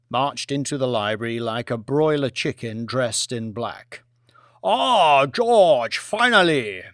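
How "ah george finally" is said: higher, louder eager greeting; Premier's voice. Acted. The Premier greets Lord Martin, eager and loud. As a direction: greet him like a long-lost friend.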